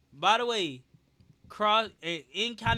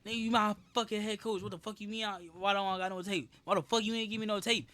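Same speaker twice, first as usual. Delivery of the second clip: retold spazzing off; 3 semitones higher than usual. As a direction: go off on the coach in a retold rant. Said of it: "I just spaz off a nigga".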